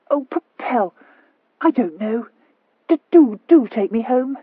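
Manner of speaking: high, stammering plea; pleading stammer. A narrator's reading. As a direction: beg through a stammer.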